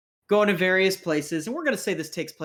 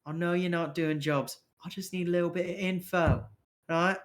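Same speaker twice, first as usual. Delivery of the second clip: slightly raised, wheedling patter; coaxing street rogue; 3 semitones higher than usual. Acted. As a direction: press a reluctant contact for info. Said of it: "He goes".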